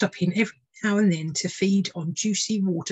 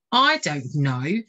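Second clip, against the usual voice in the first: slow hesitant; much slower than usual. Acted. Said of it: "said the lady of the bedchamber".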